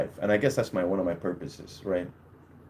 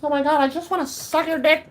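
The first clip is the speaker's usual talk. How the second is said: very high falsetto woman; high, gushing mock-woman voice; imitated swooning woman; 13 semitones higher than usual. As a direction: put on a mock female falsetto. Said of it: "women would throw themselves on you and be like".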